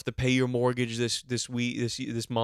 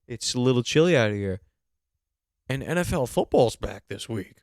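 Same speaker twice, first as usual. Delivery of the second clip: acted excitement; 5 dB louder than usual. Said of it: "They go".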